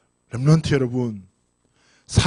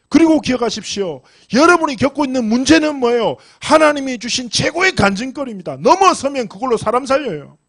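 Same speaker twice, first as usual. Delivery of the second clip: higher-pitched, driving sermon delivery; impassioned preaching; 5 semitones higher than usual. Acted. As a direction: preach it with urgency to a congregation. Preaches at full force.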